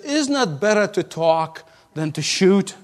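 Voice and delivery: gently coaxing, lightly voiced bear; mild, calming voice of reason; soft and soothing. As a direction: soothe the listener into talking it over. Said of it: "spoke in a soft and soothing voice".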